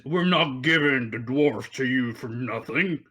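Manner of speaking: a hint of a rugged tough; lightly voiced rugged haggler. Game master voices a captor demanding payment, rugged voice. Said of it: "the rugged voice say".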